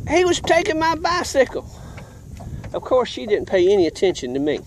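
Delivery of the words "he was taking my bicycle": much higher, retold childish protest; high-pitched protest. Child defending himself to angry grandmother, retold high protest.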